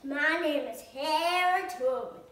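put-on child's gentle Southern accent. Shown as a demonstration. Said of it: "Southern voice".

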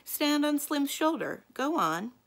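high, loud, slow taunt; taunting dare. Acted. Sally loudly goading Kirby onto Slim's shoulders. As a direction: goad him into it.

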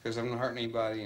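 high, brash challenge to the policeman; scoff, who are you fooling with; confident attitude. Retold or imitated. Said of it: "he was real confident".

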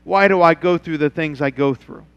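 quiet, low questioning voice; a hurting member asking why; doubting churchgoer. Retold or imitated. Churchgoer asking the pastor why, quiet and low. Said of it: "You say".

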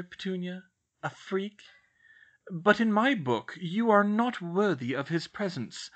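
a hint of a stern witch's disdain; cold scolding professor. A narrator's reading. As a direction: put her firmly in her place.

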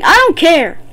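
fed-up shout at imagined critics; defiant outburst. Real, not acted. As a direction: throw it out defiantly, punching the middle. Defiant about cheating.

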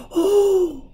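high, loud startled "oh"; sudden cry. A narrator's reading. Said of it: "said Susan suddenly".

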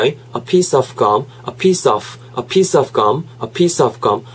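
"piece of" linked with audible friction on "of"; lightly scraped "of". Shown as a demonstration. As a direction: graze the final consonant of "of". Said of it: "의식적으로 살짝 긁고 가는". ("of" 끝소리를 살짝 긁고 넘어가기)

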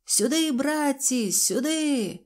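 high, drawn-out call to friends; shouting. A narrator's reading. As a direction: summon them over from afar. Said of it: "закричав".

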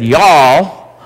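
brief stab at a Texan "y'all"; Texan accent. Shown as a demonstration. Pastor trying what they said in Texas, Texan accent. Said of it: "I tried practicing this morning what they said".

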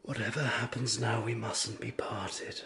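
soothing. Acted. Husband calms frightened wife.

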